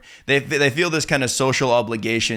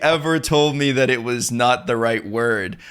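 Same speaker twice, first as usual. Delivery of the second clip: shocked inner realization; slower than usual. Retold or imitated. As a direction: realize you've been wrong for years, aghast. I think in my head.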